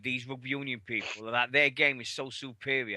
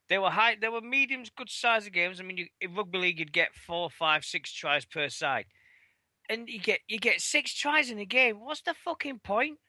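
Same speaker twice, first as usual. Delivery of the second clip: exasperated rant; 8 semitones higher than usual. Real, not acted. Ranting about six tries only.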